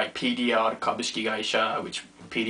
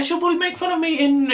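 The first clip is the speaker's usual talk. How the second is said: mock high voice; 3 dB louder, faster than usual. Predicting friend's mockery.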